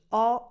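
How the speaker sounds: "O" as an open "aw"; defined open vowel "aw" for "O". Shown as a demonstration. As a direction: say "O" like "aw", fully defined. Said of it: "it's not pronounced O".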